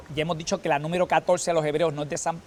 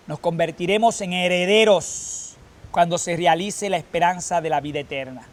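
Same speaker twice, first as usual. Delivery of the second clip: measured, solemn reading from the lectern; liturgical reading; 3 dB louder than usual. Acted. Lector reading Paul to the congregation, solemn.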